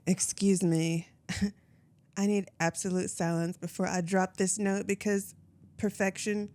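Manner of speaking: Impression of a famous singer. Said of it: it's a well-known singer.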